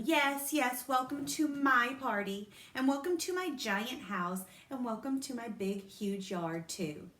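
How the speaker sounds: showing off. A narrator's reading. Lucille welcoming the kids, bragging. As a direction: boast about the giant house.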